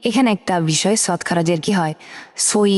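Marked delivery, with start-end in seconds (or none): 2.5-2.7 সুই with the vowel held a full second; সুই, long vowel held a beat; stretched vowel. Shown as a demonstration. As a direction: draw out সুই long and even. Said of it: "এক second টেনে পড়তে হবে".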